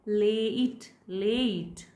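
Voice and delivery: late with a drawn-out "ay-ee" glide; emphasised long A. Shown as a demonstration. Teacher showing the strong form of a, stretched late. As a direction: stretch the vowel of late into a full ay. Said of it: "with emphasis, then this is".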